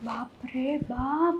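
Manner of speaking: very soft, slow exhale of the words; weary sigh of relief. Acted. Alone after sister-in-law's scolding, a slow drained sigh. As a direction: mutter it to yourself, drained.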